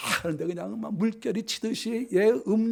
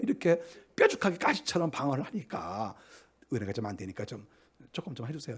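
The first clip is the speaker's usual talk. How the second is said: gentle hushed coaxing; 7 semitones lower, 7 dB quieter than usual. Retold or imitated. Pastor to deacon over coffee, soft hushed coaxing. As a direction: coax him as softly as you can.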